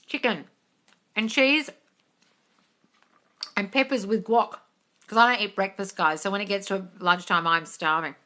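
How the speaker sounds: talking while chewing; chewing between words; mouth full. Real, not acted. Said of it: "sorry about my chewing".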